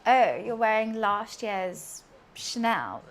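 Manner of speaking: slow, drawn-out snooty jab; snobby put-down. Retold or imitated. A streamer acting out a snob sneering at clothes, slow and snooty. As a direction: look down your nose at last year's Chanel. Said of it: "that snobby".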